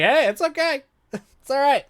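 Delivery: high, laughing mock reassurance; chill vampire. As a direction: play a blood-soaked vampire who's totally relaxed.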